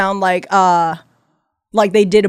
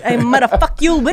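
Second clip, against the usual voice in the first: put-on Vietnamese gangster accent; 3 semitones higher than usual. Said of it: "Vietnamese gangster guy voice".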